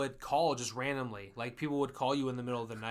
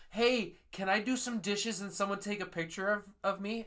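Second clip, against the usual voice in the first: higher, imitating a drunk kid; a hint of a tipsy kid asking; 6 semitones higher than usual. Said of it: "he goes".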